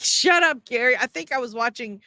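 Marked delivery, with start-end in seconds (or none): 0.0-1.0 mock yell. Streamer yelling at Gary's voice on Spaces, mock yell. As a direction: tell Gary to shut up, fed up.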